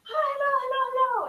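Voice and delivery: high, loud eager shout of hello; imitating sushi man. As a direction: call out hello like an excited shopkeeper. Sushi man calling out greeting.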